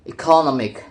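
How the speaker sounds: "economic" set apart, stressed on NOM; stress before suffix. Shown as a demonstration. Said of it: "stress moves to the syllables immediately".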